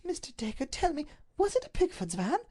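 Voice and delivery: high, anguished plea to Dacre; ring of anguish. A narrator's reading. Duchess begs Mister Dacre for the truth, anguished. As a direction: let fear crack through the question. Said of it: "In her voice there was a ring of anguish".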